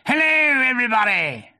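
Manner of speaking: high, loud hearty shout; cheerful. A narrator's reading. Tigger greeting everyone through the hedge, cheerful shout. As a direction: call out exuberantly to the whole group.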